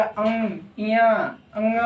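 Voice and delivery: अं and अंग hummed through the nose; nasal sounds demo. Shown as a demonstration. Teacher showing nasal fifth letters. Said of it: "ऐसे हो गया".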